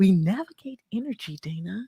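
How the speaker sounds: calm, unhurried radio voice, slow and measured. Copying how the host just spoke to the guest: imitating Carol's calm voice. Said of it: "I'm gonna start focusing my voice just like that".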